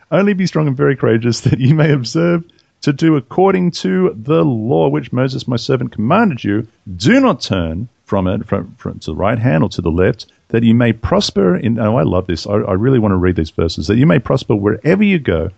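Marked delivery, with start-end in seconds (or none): 0.1-11.8 measured, formal reading of the Bible passage; scripture reading. Acted. Reading Joshua aloud to the podcast listeners, formal scripture reading. 13.9-15.5 measured, formal reading of the Bible passage; scripture reading. Acted. Reading Joshua aloud to the podcast listeners, formal scripture reading.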